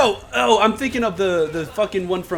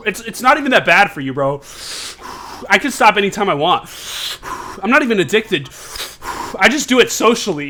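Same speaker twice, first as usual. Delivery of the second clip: defensive vape addict; 3 semitones higher than usual. Pretend. Addict voice with sighs.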